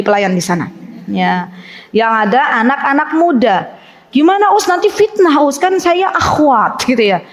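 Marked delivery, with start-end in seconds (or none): 4.1-6.8 high, fretful pleading question; worried akhwat. Retold or imitated. Mock akhwat asks the ustadz worriedly, high and fretful. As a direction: mimic a pious woman fretting to the ustadz.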